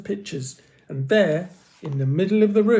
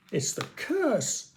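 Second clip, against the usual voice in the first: higher, slow frightened wail; higher slow wail of fear; 8 semitones higher, 3 dB quieter, slower than usual. A narrator's reading. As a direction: moan it in dread. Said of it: "Akil wailed".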